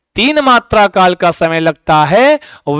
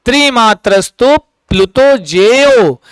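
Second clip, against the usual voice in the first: verse recitation; 2 semitones higher than usual. Shown as a demonstration. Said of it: "जेयो मतलब जानिए".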